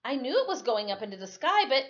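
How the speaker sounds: steady read-aloud narration; measured story reading for children. A narrator's reading. Reads the novel to listeners.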